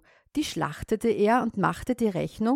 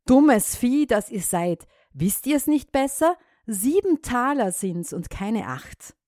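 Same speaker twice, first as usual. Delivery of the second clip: shouted scolding, higher; calling out; 4 semitones higher than usual. Acted. Farmer calling out to the frogs, annoyed. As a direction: call out crossly to the frogs. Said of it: "rief er ihnen zu".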